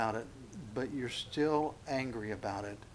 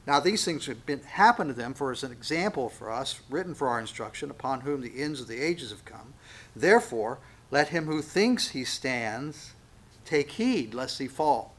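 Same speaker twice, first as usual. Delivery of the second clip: scripture reading; 4 dB louder than usual. Real, not acted. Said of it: "we'll pick up verse eleven".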